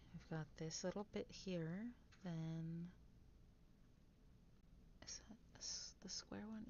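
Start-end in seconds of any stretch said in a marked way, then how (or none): 5.0-6.6 whispering. Real, not acted. Quiet building whisper.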